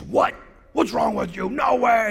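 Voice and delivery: loud, high shout of disbelief; acted outrage. Biker offended by pastor's question, loud mock outrage.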